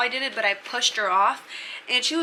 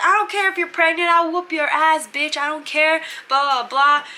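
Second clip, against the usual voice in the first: high, loud imitation of a bully; hammed-up raised-voice threat; mock angry threat; 5 semitones higher, 4 dB louder than usual. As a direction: act out a belligerent rant. Bunkie threatening pregnant friend.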